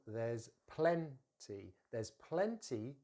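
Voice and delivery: very slow "there's plenty", voiced Z; slow model with a buzzing Z in "there's". Shown as a demonstration. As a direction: draw out "there's plenty" for learners. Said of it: "and it's a Z sound".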